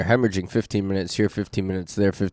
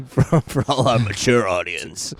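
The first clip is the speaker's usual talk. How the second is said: slow, lightly put-on grown-up voice; a hint of pretend maturity, unhurried; mock mature voice. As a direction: play at sounding mature, drawing the words out. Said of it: "let me put on my mature voice".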